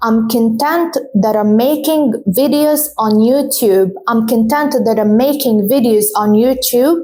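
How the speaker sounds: I'm conTENT said slowly, stress on TENT; slow dictation; slow model sentence. Shown as a demonstration. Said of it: "Content as an adjective".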